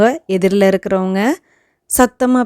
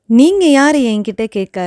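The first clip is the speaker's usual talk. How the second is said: raised, louder indignant demand; an indignant, raised question; angry challenge; 3 semitones higher, 4 dB louder than usual. Shown as a demonstration. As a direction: challenge their right to ask. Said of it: "கோபத்தோட பேசுறதுக்கு".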